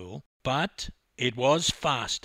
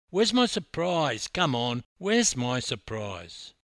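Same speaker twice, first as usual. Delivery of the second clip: nagging, impatient, punched demand; pestering; 5 dB louder than usual. Acted. Swimmer badgering the coach for his surprise, pestering. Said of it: "a constant barrage of annoyance".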